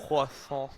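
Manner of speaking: croissant as a French kwah-SAHN mid-sentence; French pronunciation. Acted. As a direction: drop an exaggerated French "croissant" into casual American speech. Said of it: "say it in our accent".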